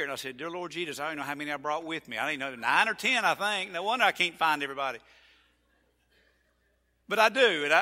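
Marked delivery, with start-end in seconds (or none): 0.4-5.0 hurried, flustered, louder by the end; flustered self-quote. Retold or imitated. Pastor recalling the trip headcount, flustered and rushed. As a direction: rattle it off like you lost count.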